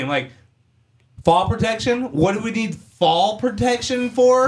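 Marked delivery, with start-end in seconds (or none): 1.2-4.5 high, drawn-out mocking echo; mock incredulity. Electrician retells answering the shop guy's silly question, mock incredulous. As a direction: throw the question back, pitched way up.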